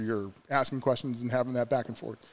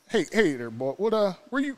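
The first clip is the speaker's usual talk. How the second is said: shitty Caleb Copeland; 8 semitones higher than usual. Retold or imitated. Caleb greeting the newcomer at camp, higher mock Southern voice. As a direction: play the big friendly Southern guy, pitched up. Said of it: "I did such a shitty Caleb Copeland".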